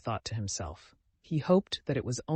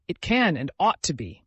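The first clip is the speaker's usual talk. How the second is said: louder emphasis on "can" and "ought"; emphatic; 3 semitones higher, 6 dB louder than usual. A narrator's reading. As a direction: press firmly on "can and ought". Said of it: "Alyosha began emphatically".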